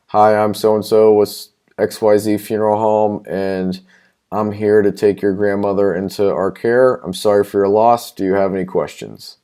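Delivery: lightly imitated flat monotone. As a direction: recite it like a bored clerk. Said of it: "very monotone".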